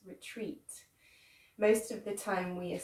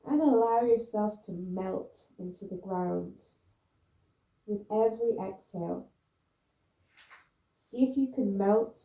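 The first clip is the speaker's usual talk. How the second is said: guided relaxation; 6 dB louder than usual. Real, not acted. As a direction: coax them to let go, phrase by phrase, with long pauses. Guides students down into pose.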